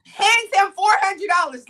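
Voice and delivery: astonished, insistent restatement; amazed emphasis. Real, not acted. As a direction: hit "Hands him four hundred dollars" high and hard. Amazed repeat of the same fact.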